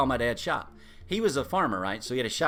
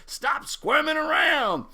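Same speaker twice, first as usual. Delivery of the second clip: higher, slow stern command; stern order; 11 semitones higher, 4 dB louder, slower than usual. Retold or imitated. Daddy Price telling grandson to stop squirming, slow stern. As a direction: order him slowly to hold still.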